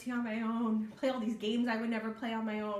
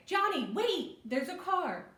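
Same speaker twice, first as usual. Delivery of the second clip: higher, louder call to Johnny; urgent warning; 7 semitones higher, 4 dB louder, slower than usual. Shown as a demonstration. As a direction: shout to stop him before the car. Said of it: "you're gonna say".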